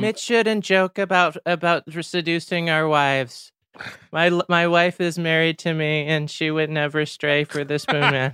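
a husband faking outrage about his wife; mock indignant husband. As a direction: play the wounded husband, hamming it up.

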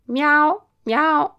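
high, loud imitated cat meows; desperate meowing. A narrator's reading. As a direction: meow as prisoners faking cats. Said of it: "miagolavano disperatamente i nostri prigionieri".

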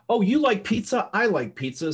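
high, hammed-up gushing; mock eager small talk. Parodying an agent faking common ground. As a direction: overeager fake enthusiasm. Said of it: "I'm gonna be a little bit absurd".

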